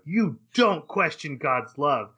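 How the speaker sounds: slow, mild mock yell; retold yell. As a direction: imitate an outraged rebuke, drawn out. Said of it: "jumps up and just yells at him".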